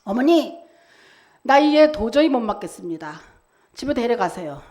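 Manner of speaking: mildly acted exasperation, firm then easing; retold angry teacher. Angry teacher telling Edison's mother to take him home, mild exasperation. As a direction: give a touch of an angry teacher. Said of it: "담임 선생님이 화가 나가지고".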